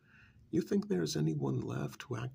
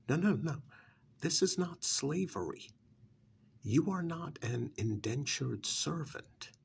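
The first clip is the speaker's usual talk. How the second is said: insistent denial; 3 semitones higher than usual. Acted. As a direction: push back firmly against the accusation. Objecting to the slavery accusation.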